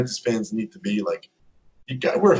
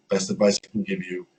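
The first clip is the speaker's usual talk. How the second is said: calm advice; 4 semitones lower than usual. Retold or imitated. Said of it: "He's, like, speaking really calmly".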